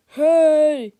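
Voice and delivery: loud, high call across the stands; shout. Acted. Fan in the stands shouts in outrage, loud high holler. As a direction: holler to get everyone's attention. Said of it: "shouted a fan in the stands".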